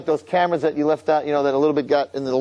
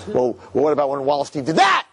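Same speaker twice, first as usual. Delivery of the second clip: demanding shout. Acted. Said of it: "And then he's like".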